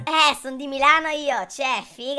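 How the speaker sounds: Milanese slang voice. Acted. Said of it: "proverò tipo a cambiare accento".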